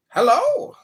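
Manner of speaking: high, loud call into the room. Real, not acted. Host calling Diego to come up and speak, loud. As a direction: call for someone who won't answer.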